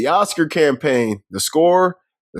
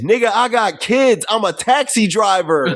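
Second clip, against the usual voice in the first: acted quote; 6 semitones higher, slower than usual. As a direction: drag it out, up high and pushy. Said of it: "He said".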